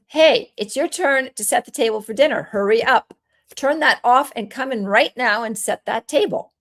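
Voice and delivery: put-on bossy, hurried command to a kid; brusque order. Shown as a demonstration. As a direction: bark it like an impatient parent. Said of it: "We're not gonna start with".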